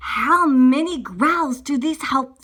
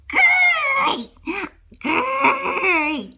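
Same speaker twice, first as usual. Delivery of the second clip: high, loud growly roar; growled-out roar; bear roar; 11 semitones higher, 4 dB louder than usual. Acted. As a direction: roar out a big bear grr. Roaring as the bear.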